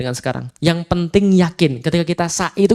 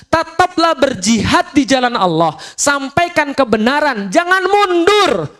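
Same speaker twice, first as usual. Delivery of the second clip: slow, building higher to a cry on jangan mundur; rising exhortation; 8 semitones higher, slower than usual. Acted. Preacher voicing God urging Muhammad not to retreat, building slow exhortation. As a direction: urge him on, climbing to a peak.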